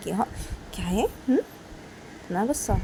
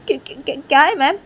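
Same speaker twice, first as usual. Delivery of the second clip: higher, louder bewildered pleading; upset student; 7 semitones higher, 7 dB louder than usual. Acted. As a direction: press her with confused questions. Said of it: "तो काजल बोलती".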